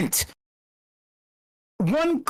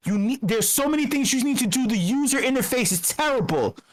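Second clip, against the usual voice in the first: advice from smart people; 3 semitones lower than usual. Retold or imitated.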